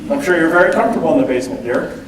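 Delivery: fast, mock-sweet sarcasm ending in "dear"; sarcastic dad. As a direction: rattle it off with fake sweetness. Dad sarcastically needling grown daughter.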